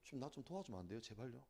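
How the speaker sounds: 낮고 아주 작게 애원; 소리가 안 나올 만큼 절박하게 기도; 소리 없는 절박함. Acted. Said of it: "너무 절박하면 소리도 안 나와요". (기어드는 소리로 간청)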